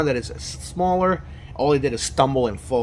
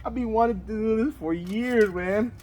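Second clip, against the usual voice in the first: excited; 7 semitones higher than usual. Real, not acted. Finally using camping oven.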